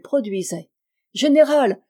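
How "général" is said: high, loud call for the general; mock-alarmed cry. A narrator's reading. Good lady calling her general, crying out. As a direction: call out as if for help. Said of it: "s'écria la bonne dame".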